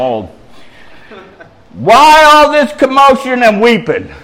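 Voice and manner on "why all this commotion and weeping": Jesus' words. A narrator's reading. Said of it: "That's Jesus' words".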